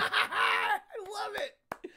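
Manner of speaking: high, loud, slow gushing; hugely excited, drawn-out exclamation; delighted. Real, not acted. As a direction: gush over the figure with delight. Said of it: "I am such a fan".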